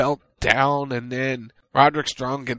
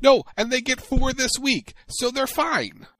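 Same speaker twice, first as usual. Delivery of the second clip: teasing; 10 semitones higher, 4 dB louder than usual. Real, not acted. Teasing Chicago fans.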